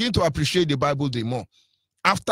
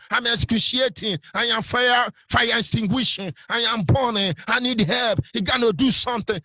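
higher pleading cry for help; mock shout to God; 6 semitones higher than usual. Shown as a demonstration. Preacher shows the congregation how to cry out to God, pleading high. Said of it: "Shout to God".

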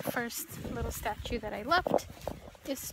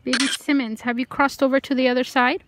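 strongly projected question, much louder; calling out; 11 dB louder than usual. Real, not acted. Ghost hunter asking Baby Simmons about crossing, calling out. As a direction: call the spirit by name, then ask.

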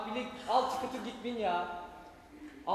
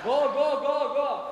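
otobüsü sürer gibi; 3 semitones higher, 7 dB louder, much slower than usual. Acted. Otobüs yolculuğunu canlandırıyor.

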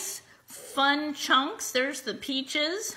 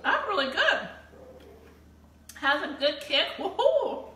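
delighted; 3 semitones higher than usual. Real, not acted. Tasting salsa with delight.

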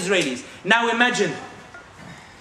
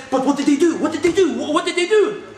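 mock insistent presenter; 5 semitones higher than usual. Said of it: "the presenter says".

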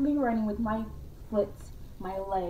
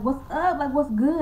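mock ghost greeting; 5 semitones higher, 5 dB louder than usual. Voicing the ghost coming out.

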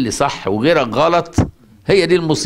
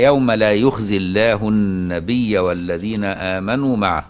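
slow, measured chanting of the verse; Quranic recitation; 2 semitones lower, slower than usual. Acted. Sheikh reciting the verse to his students, slow chant. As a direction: recite the verse in tajweed style, unhurried.

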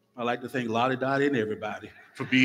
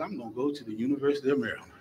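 mock determined; faster than usual. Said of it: "And I said".

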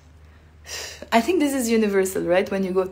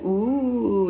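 long admiring "ooh"; really-nice kind of ooh; impressed "ooh"; 2 semitones higher than usual. Shown as a demonstration. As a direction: draw it out, appreciative. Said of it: "Really nice".

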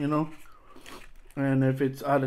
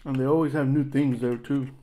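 eating fries between words; chewing while talking. Real, not acted. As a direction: mouth partly full of food. Seen 1: ate a bite at -3.0; mouth still working during the words.

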